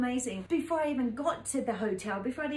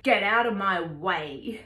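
slow, louder, firm order to the gang; mum's stern command; 7 dB louder, slower than usual. Retold or imitated. Mother ordering gang members aside, slow firm command. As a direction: lay down the law, slow and loud. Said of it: "Mum was like".

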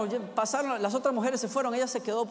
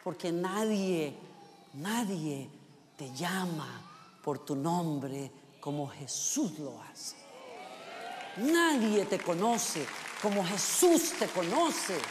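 much softer, lower and slow, lingering on nadie; hushed intimate; 6 semitones lower, 6 dB quieter, much slower than usual. Real, not acted. Preacher telling the congregation how Jesus knows them, soft and slow. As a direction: draw the congregation in close, slowly.

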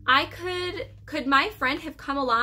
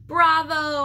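higher, louder cheer; loud high bravo; shouted bravo; 5 semitones higher, 6 dB louder than usual. A narrator's reading. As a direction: shout it out to the player. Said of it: "I shouted again".

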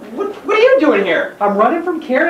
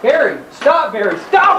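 alarmed call; 6 semitones higher than usual. Acted. Bennett yelling at falling colleague.

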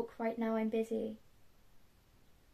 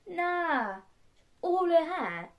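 high, louder, scandalised reaction; gossipy disbelief; 7 semitones higher, 4 dB louder, slower than usual. Acted. Villain hearing gossip from mum, scandalised disbelief. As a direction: react to juicy news in disbelief.

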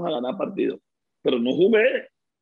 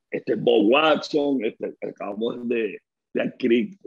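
big voice; 6 semitones lower, slower than usual. Retold or imitated. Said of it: "Tenía una vocesota así, gran, fuerte".

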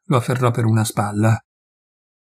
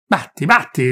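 defiant angry dare; daring him to strike; furious voice; 3 semitones higher than usual. Acted. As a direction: peasant goading the forester. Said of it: "con voce furiosa".

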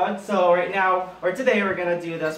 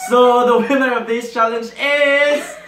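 much louder and higher, cheering; excited announcement; 7 semitones higher, 6 dB louder than usual. Real, not acted. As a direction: cheer the winner out loud. Announcing the challenge winner.

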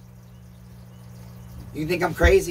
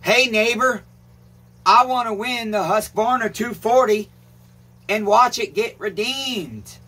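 comment to type; 4 semitones higher, slower than usual. Shown as a demonstration. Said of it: "go down in the comments and say".

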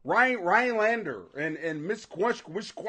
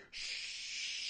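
shushing; 16 dB quieter than usual. Real, not acted. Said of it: "Don't you say a damn thing".

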